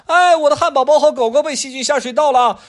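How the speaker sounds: put-on very high, loud child's cry; a little boy watching his toys go; wailing kid. Adam crying out as the drain swallows things, high wail.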